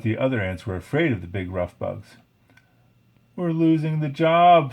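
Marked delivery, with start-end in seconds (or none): 3.4-4.7 worried. A narrator's reading. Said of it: "Slim worried".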